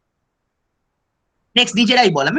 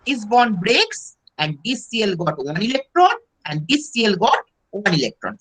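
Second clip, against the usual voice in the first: slow dictation; much slower than usual. Shown as a demonstration. Teacher dictating English version slowly.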